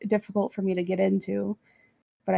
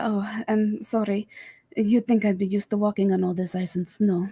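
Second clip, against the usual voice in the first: lightly done Transylvanian accent; demonstrating a Transylvanian character accent. Shown as a demonstration. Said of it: "like, a Transylvanian accent".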